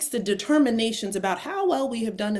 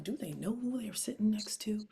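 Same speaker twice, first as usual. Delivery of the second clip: whispered smug boasting that bursts out at the end; ego whisper; 2 semitones higher than usual. Retold or imitated. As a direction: whisper your own importance, then crack. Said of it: "quiet as it's kept in my ego".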